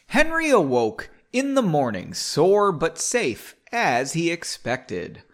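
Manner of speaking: slow, melodic read-aloud; story narration. A narrator's reading. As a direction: draw out the phrases as you narrate. Reads the novel aloud.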